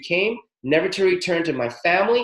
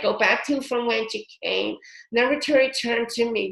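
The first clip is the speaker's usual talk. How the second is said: mantra-like recital; 8 semitones higher than usual. Shown as a demonstration. Showing how not to clear demons, mock rote mantra. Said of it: "can't just say these clearings like a fucking mantra".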